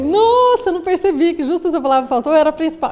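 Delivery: sudden high "Nossa" of discovery; surprised realization. Retold or imitated. Patient realizing the missing word, surprised.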